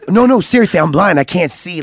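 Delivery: earnest mock protest; retold insistent protest. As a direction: act out pleading to be believed. Retold pleading to be believed.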